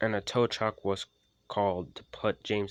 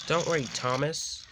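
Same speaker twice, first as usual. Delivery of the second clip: cheerful; 7 semitones higher than usual. Acted. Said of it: "said Flynn cheerfully".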